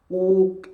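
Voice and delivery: "Kuk" with a loud breath burst at the end; bouncing qalqalah. Shown as a demonstration. Teacher demonstrates a qalqalah bounce. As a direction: pop the final k of "Kuk". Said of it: "Ada bunyi percikan nafas".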